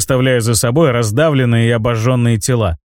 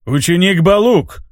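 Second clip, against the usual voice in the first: slow, higher rumbling call; rumbling spirit voice; 5 semitones higher than usual. Acted. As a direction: boom out the name as the spirit. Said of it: "пророкотал дух".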